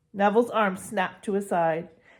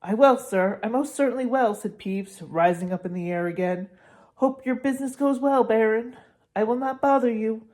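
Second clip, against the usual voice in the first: fawning Peeves; 4 semitones higher than usual. Acted.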